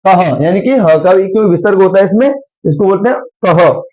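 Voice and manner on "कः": कह ending in an h echo; breath after vowel. Shown as a demonstration. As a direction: let ह sound at the end of कह. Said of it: "इसमें ह का भी स्वर आता है". (कह में विसर्ग की ध्वनि)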